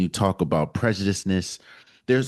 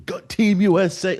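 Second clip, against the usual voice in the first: mock fan cheer, pitched up; imitated screaming cheer; 9 semitones higher, 4 dB louder than usual. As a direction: cheer it high, only half shouted. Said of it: "I'm over here screaming".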